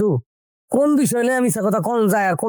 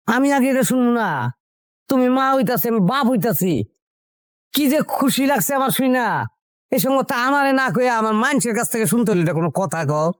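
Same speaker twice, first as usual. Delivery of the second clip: higher-pitched excited complaining; worked-up protest; 5 semitones higher than usual. Acted. Husband to wife over hearing baby news from others, worked-up protest. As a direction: protest eagerly at being left out.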